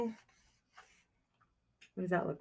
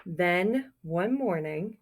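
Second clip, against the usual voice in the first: put-on reading a picture book aloud to children; storybook reading; 2 semitones higher, 3 dB louder than usual. A narrator's reading. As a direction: tell it like storytime for kids.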